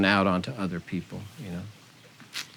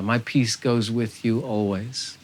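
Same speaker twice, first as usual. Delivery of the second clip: gentle voice of Spirit; slower than usual. Acted. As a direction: speak as a loving spirit, unhurried and tender. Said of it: "Hear that gentle voice of Spirit saying".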